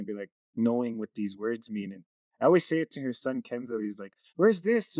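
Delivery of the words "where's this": put-on light high child voice asking; a hint of a curious toddler; kid's question. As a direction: play the curious little boy.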